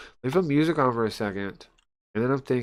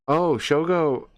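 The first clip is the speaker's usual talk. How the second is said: surprised; 7 semitones higher, 6 dB louder, slower than usual. Real, not acted. Realizes the name in text.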